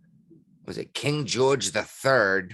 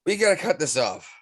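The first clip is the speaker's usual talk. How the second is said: talking through hiccups; words broken by hiccups; hiccuping; 5 semitones higher than usual. Real, not acted. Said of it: "I can't stop hiccuping".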